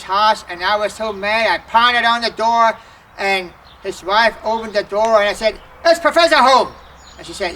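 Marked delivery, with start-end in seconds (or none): 5.9-6.7 retold angry demand. Angry man at the door.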